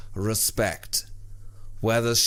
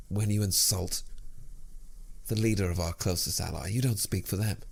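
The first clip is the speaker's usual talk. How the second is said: softer, grave and deliberate; solemn quiet defiance; 3 semitones lower, 6 dB quieter than usual. Acted. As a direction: say it low and dead serious.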